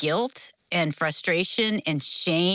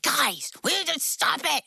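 retold yelling; 9 semitones higher than usual. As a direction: re-enact a mom yelling at her kids. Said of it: "I am now yelling".

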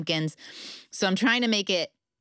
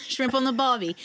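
Australian accent; 5 semitones higher than usual. Shown as a demonstration.

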